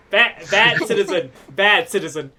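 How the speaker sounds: emphatic, playful telling-off; mock scolding. Game master telling off a bad citizen in the audience, mock scolding.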